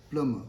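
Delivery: 'Plumber' as plum-uh, no b; silent B. Shown as a demonstration. Teacher prompts learners, silent B. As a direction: say 'Plumber' leaving out the b sound. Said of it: "B is silent".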